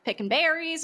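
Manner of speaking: chatty high storyline voice; character storytelling. Retold or imitated. Merida inventing a story for guests, high put-on voice. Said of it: "you're like".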